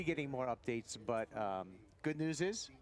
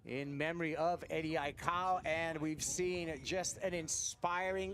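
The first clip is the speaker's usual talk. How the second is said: higher, building broadcast opener; excited announcer; 5 semitones higher than usual. Acted. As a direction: open the show with excitement. Commentator opens the broadcast.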